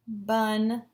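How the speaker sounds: BUNDLE as bun, pause, dul; split into syllables. Shown as a demonstration. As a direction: break BUNDLE into two chunks. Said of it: "looking for the syllable chunks".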